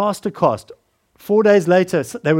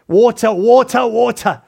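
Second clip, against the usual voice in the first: desperate cry; 4 semitones higher, 6 dB louder than usual. Acted. Desperate thirsty man crying.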